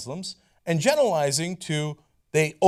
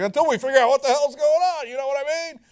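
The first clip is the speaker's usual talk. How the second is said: mock Trump; 8 semitones higher, 4 dB louder than usual. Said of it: "and he's like".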